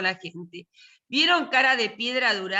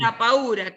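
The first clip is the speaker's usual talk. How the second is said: "paura" louder, with the accent on the U; stress on U; 5 dB louder than usual. Shown as a demonstration. Teacher repeating the corrected Italian title, stressed U in "paura". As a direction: lean firmly on the U of "paura". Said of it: "Con el acento en la U".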